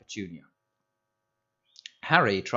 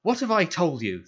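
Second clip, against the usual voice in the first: loud, much higher thundering; 9 semitones higher, 6 dB louder than usual. A narrator's reading. Uncle thundering at nephew over the M word, loud. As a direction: let it thunder across the table. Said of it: "thundered his uncle".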